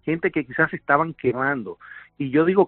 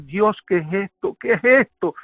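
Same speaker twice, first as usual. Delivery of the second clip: climbing higher on the repeat, restrained yell; retold horrified cry; 4 semitones higher than usual. Survivor sees the woman's body, retold cry of horror. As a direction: re-enact crying out in disbelief. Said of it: "empiezo a gritar".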